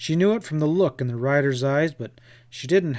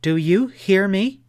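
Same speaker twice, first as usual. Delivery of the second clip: higher and louder, indignant outburst; angry; 6 semitones higher, 6 dB louder than usual. Acted. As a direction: stand your ground, furious and proud. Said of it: "She stamped a small foot to emphasize".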